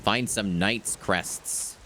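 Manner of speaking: slow, formal greeting then letter read; a polite postman handing over mail; mail carrier. Acted. Postman delivering a swordsman's letter, slow and formal. Reads mailbox and letter text.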